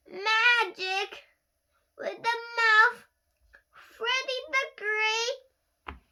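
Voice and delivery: high, loud, very slow sobbing words; crying. Acted. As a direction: wail it out in broken pieces. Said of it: "I burst into tears".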